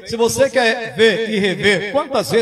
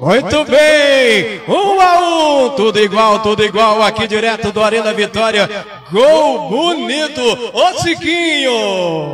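explosive goal commentary; 4 dB louder than usual. Real, not acted. Celebrating the equaliser live.

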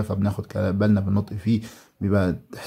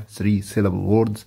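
slow syllable demo; much slower than usual. Shown as a demonstration. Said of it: "ذات ثلاث مقاطع".

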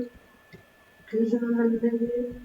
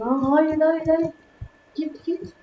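rising panicked pleas, higher pitch; 5 semitones higher, slower than usual. Real, not acted. Gamer pleading with an in-game threat, rising panic. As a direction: beg the threat to go away.

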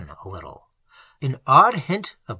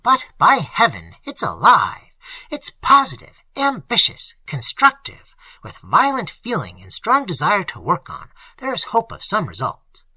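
much louder and higher, impetuous and eager; fervent; 5 semitones higher, 7 dB louder than usual. A narrator's reading. The pastor leans forward, fervently praising the wild men, louder and higher. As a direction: pour it out with burning zeal. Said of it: "fervent, almost impetuous with suppressed desire".

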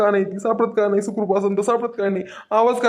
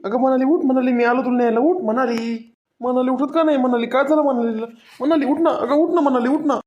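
higher, anxious begging to wake up; desperate pleading; 3 semitones higher than usual. Acted. Husband finds his wife unconscious on the bank, pleading anxiously. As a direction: plead with her to open her eyes.

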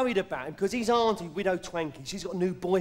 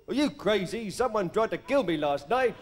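Cary Grant. Retold or imitated. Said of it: "the late, great Cary Grant".

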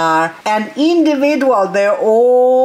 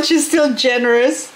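ordinary talk, nothing marked

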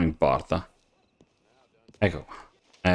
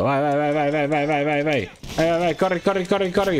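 excited urging; 7 semitones higher than usual. Real, not acted. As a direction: spur the horses on at full tilt. Fleeing with a stolen carriage. (incitamento eccitato, alto e forte)

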